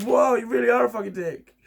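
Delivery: high, loud hammed-up "Whoa, you really are a fucking dick"; mock the test result as a shocked machine; mock computer verdict. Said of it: "computer says".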